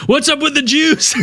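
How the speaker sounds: high, laughing mock voice; goofy high question; mock dumb voice.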